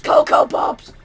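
shouting. Pretend. Shouting the jingle end.

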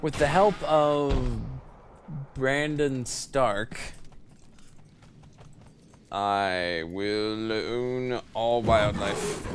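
slow, drawn-out mock-heroic proclamation; hammed-up overlord decree; grand proclamation. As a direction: declare it like an epic villain, very slowly.

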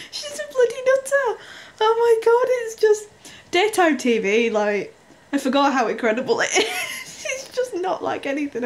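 high, loud, helpless laughter through the words; crying with laughter at the telly; squealing with real laughter; laughing to tears. Real, not acted. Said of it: "in tears here laughing".

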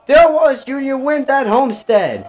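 excited shout. Real, not acted. Finish of the race, cheering.

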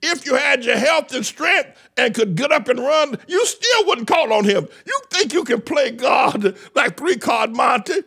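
a preacher condemning his flock to hell; fiery preaching. Acted. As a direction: thunder it from the pulpit. Preaching at full force.

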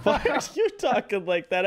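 laughing. Real, not acted. Laughing back at friend.

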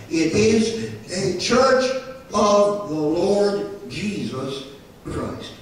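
"church of the Lord Jesus Christ" slow and weighty, word by word; solemn emphasis. Real, not acted. Preacher solemnly insisting on his point.

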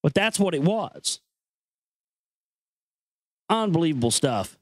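usual speaking voice

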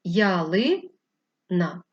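"Ялина" very slow, split for the line break; hyphenation demo. Shown as a demonstration. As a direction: draw out "Ялина" to show where it breaks. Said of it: "переноситься ось так".

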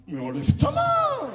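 high, slow shrieked protest; comic high-pitched panic; panicked squeal. Retold or imitated. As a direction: squeal to get the hand off.

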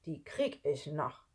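slow, lightly grumbled threat; a hint of menacing muttering; grumbling man. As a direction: grumble it to yourself, slowly. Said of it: "brummelte Arthur".

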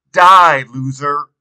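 a driver hurling a quick insult; shout back. A narrator's reading. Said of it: "someone shouts back".

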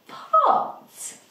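high excited final blend; blending the word. Shown as a demonstration. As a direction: land pot high and bright. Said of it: "blend the sounds together".

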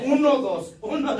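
loud, high laughing count; shouted step count, laughing; dance count. Pretend. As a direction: call out the dance steps.

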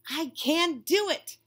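high, slow dismayed line; mild despair. Acted. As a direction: sound like you're giving up. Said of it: "said Pete".

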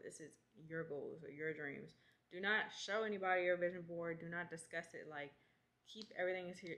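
lisping through a retainer; slight lisp from a retainer; wearing a retainer. Real, not acted. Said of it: "Sorry for the lisp. I got my retainer in".

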